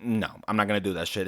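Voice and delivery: low, quiet retold refusal; understated, dropped-voice refusal; muted refusal. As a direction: imitate a reluctant teen saying no under the breath. Acted boy refusing the custom.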